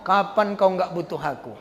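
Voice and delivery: low muttered inner vow; a mild vengeful inner voice; inner grudge. Retold or imitated. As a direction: think it darkly to yourself. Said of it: "dalam hatinya".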